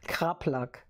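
mock German accent on Kraplak; playful fake German accent. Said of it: "I'll put a German accent to it".

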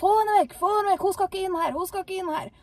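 fast, high, loud shriek fading at the end; possessed woman screaming. Retold or imitated. Possessed woman shrieking to keep the visitor out. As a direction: scream the demand over and over. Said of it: "og hun skreik".

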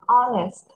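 "Honest" with the H left silent. Shown as a demonstration. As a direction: say "Honest" starting on the vowel, no H. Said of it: "Âm H này là âm câm".

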